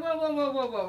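a quick series of whoas, like calming a horse. Retold or imitated. Stopping an eager customer.

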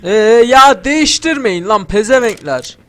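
loud, high exasperated yell; angry shout. Real, not acted. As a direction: snap at them loudly. Angry at changing music. (müziği değiştirenlere kızan oyuncu, öfkeli bağırış)

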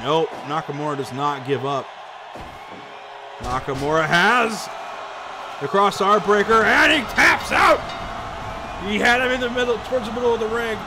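rising hype, then a winding-down result call; wrestling commentator. Real, not acted. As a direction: call the finish like a ringside announcer. Live play-by-play, finish and result.

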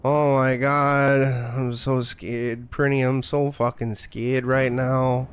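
flat mock terror, drawn out slow; deadpan fake fear. Streamer mocking the horror game, deadpan fake fright. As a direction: pretend to be terrified with no fear at all. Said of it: "Can you hear it in my voice?".

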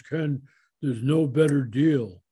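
a hint of a German accent; slow, lightly imitated German-accented delivery; Peter Drucker. Golfer retelling his idol's answer, lightly imitated German accent. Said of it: "He had this wonderful German accent".

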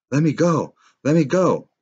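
loud, high, raspy yell; hoarse yelling. Acted. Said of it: "he yelled hoarsely".

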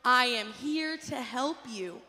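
loud, slow, emphatic call-and-response. Shown as a demonstration. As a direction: say it big and slow, leading the kids. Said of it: "One more time".

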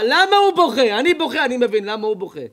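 loud, high outcry through tears; tearful outcry. Retold or imitated. The rabbi cries out to the father, loud and tearful. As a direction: cry it out, calling over the table. Rabbi weeping over the boy.

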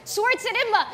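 ambidextrous said backwards; backwards speech. Shown as a demonstration. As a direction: reverse the word sound by sound. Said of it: "I could say any word backwards".

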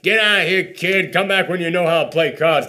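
a touch of a brash Brooklyn brush-off; lightly voiced tough guy; gruff Brooklyn soldier. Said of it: "It's like".

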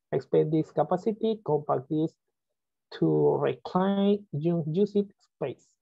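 slow, spelled-out reading of English menu items; careful English reading. Real, not acted. Teacher reading English menu options aloud to class, slow and careful. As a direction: read each English option slowly, word by word. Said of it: "¿está bien la pronunciación?".

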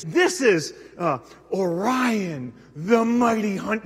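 very slow, grand guide delivery; hint of an over-passionate volunteer; mimicking the guide. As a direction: lightly mimic an intense guide. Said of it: "she is so intense".

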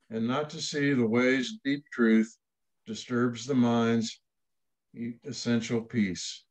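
measured recitation of a Zen text; formal reading. Acted. Reading from the third Zen patriarch to open meditation, formal recitation. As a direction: read scripture aloud, deliberate and declarative.

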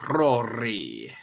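Rory with the R rolled. Shown as a demonstration. Demonstrating for a friend who can't, rolled R in Rory. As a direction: roll the R in Rory. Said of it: "Pick a word that has an R in it".

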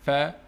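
"فا" said alone with a voiceless English "f"; lip-on-teeth f in "فا"; F sound demo. Shown as a demonstration. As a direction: isolate "فا" as a teacher showing f. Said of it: "using lips teeth action".

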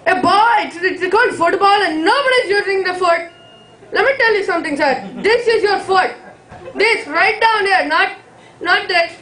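lightly voiced strict Indian father lecturing; a stern dad scolding his son. Stand-up bit, Indian dad voice.

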